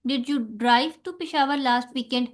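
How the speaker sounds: Peshawar given the main stress, very slowly. Shown as a demonstration. Teacher demonstrating emphatic stress on Peshawar, slowly. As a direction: lean on Peshawar, the rest lighter. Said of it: "examples इसकी देखें".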